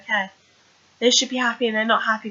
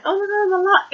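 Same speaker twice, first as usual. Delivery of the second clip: high-pitched squealed quote, barely louder; mock scream; 10 semitones higher, 3 dB louder, faster than usual. Girl in fake funeral shocks mourners, mock scream. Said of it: "the girl screams".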